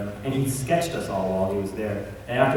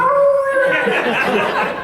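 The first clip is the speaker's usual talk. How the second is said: imitated dog noise; 8 dB louder than usual. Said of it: "she looks up and she's like".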